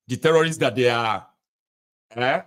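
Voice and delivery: talking round something in the mouth; words blurred by a mouthful; mouth full. Real, not acted. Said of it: "I've got something in my mouth".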